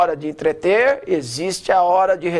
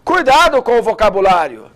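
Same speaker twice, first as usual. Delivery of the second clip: louder, projected reading; loud take; 6 dB louder than usual. Shown as a demonstration. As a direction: say it out strongly to the room. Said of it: "médio e alto".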